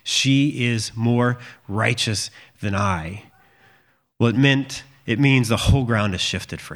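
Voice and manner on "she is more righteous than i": slow, measured retelling of a confession; humbled admission. Retold or imitated. Judah humbling himself before his daughter-in-law, slow humble admission. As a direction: give each word room, humbly conceding. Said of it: "can humble himself before his daughter-in-law and say".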